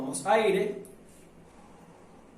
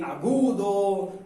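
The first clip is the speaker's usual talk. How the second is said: high-pitched demo; much slower than usual. Shown as a demonstration. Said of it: "es decir".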